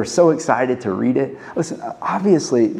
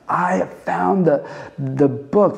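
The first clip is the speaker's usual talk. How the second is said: higher-pitched, drawn-out exclamation; excited discovery; 5 semitones higher, slower than usual. Acted. Preacher pictures the high priest's find, with excitement. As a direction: let the thrill lift the opening words. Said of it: "picture him saying this with excitement".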